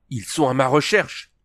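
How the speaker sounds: excited exclamation. A narrator's reading. Princess realizing her army seeks her, exclaiming eagerly. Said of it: "s'exclama-t-elle".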